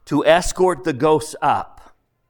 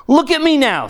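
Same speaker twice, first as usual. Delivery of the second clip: much louder and higher bragging; a loud, high-pitched bluster; boastful ghost; 10 semitones higher, 7 dB louder than usual. Acted. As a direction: thump your chest and brag. Ghost boasting, slapping his chest.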